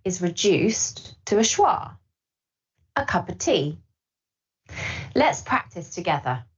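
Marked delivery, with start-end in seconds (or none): 2.9-3.8 "cup of" said as "cuppa"; linked and easy; connected speech. Shown as a demonstration. Teacher repeats the natural form for learners. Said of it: "a cup of becomes a cuppa".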